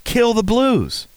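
high, slow sinister joke; drawn out gleeful command; mock villain order. Joking order to kill blues.

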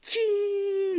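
high yelp of "Ching!" with jazz hands; sudden high mock cry; the mom's exclamation. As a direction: squeak it out like the frantic mom. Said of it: "she's always like".

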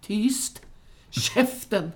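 high, curt command at normal volume; acted aggressive order to shut up; aggressive hushing. Vanheden silencing Sickan in the retold film, aggressively. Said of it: "han är så aggressiv hela tiden".

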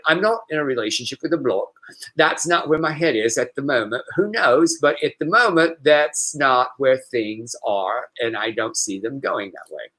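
put-on a light British accent like a little old lady; lightly voiced prim British old lady. Shown as a demonstration. Host reading Lee's quote as a little British old lady. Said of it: "like a little British little old lady".

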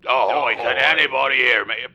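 booming caller, too loud; loud wailing. Acted. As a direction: bellow it like a bad radio line. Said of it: "Ye be wailing like a banshee".

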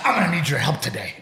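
mock demanding wife, lightly hammed up; exaggerated imitation of wife. Husband retelling his wife's morning demand, teasing imitation. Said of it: "my voice did not sound like that".

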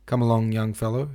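put-on loud, hearty call to the boy; hearty shout. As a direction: boom it out like a jovial headmaster. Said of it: "shouted, shouted Mister Watson".

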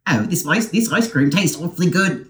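mock British accent. Hosts mocking the British invaders in a light British accent. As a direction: tease with a hammed-up British gentleman's voice. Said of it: "how's our British voice go?".

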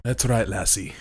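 joking mock Irish; weird half-Irish accent. Answering the co-host's teasing about being half Irish, mock Irish accent. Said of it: "half Irish?".

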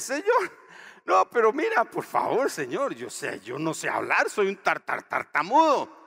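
high, loud stammering plea; pleading Moses. Retold or imitated. Moses begging God to send someone else, high and loud. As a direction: beg like a scared stutterer. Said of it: "¿Y qué le dijo a Moisés?".

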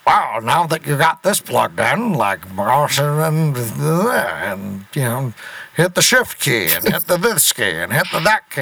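old-timey record narrator, lightly voiced; 1940s instructional voice. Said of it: "kinda nineteen forties voice".

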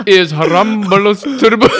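excited. Retold or imitated. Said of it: "I'm going".

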